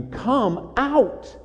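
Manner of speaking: high-pitched call without full volume; mock shout. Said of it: "God is just shouting to you".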